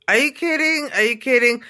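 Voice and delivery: high-pitched disbelief; incredulous. Real, not acted. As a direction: exclaim it, genuinely appalled at their foolishness. Disbelief at men without coats.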